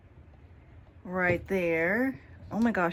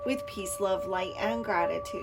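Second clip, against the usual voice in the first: invocation prayer. Acted. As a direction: call in the guides like a solemn prayer. Prays and invokes spirit guides.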